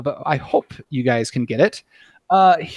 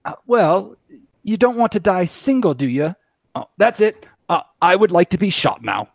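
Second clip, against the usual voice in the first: second character voice; 2 semitones higher than usual. Acted. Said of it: "I may have to just for, for the giggles of it".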